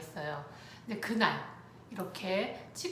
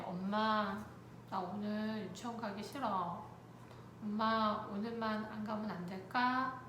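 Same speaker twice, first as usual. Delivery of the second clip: softly voiced, reluctant request; lightly played small child asking permission; timid child's plea; 5 dB quieter than usual. Six-year-old asking mom to skip kindergarten, timid.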